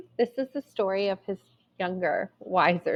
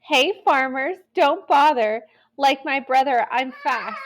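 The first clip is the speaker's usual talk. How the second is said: higher teasing call with a laugh; 5 semitones higher than usual. Acted. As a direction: laugh at the farmers as she runs. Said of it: "She laughed and called".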